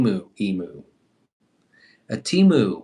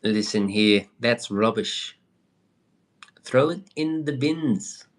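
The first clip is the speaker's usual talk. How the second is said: mock British accent. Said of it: "Stop using a British accent on me".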